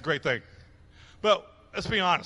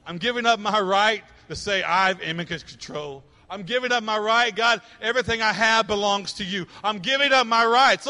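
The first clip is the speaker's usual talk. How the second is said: raised, insistent surrender prayer; impassioned preaching; 5 semitones higher, 7 dB louder than usual. Acted. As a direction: declare the surrender to God with growing force.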